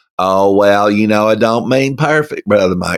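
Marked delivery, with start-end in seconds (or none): 1.3-3.0 hammed-up, put-on rural backwoods Southern US accent. Acting out an excuse about being perfect, in a put-on redneck accent. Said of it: "I don't know why I go redneck when I do this".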